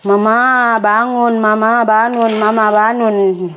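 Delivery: slow, drawn-out mimicked child's call; a hint of a little one's singsong nagging; imitating pleading child. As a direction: lightly voice a toddler waking mama, stretching the words. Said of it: "dia colok-colok mata saya, dia cucuk".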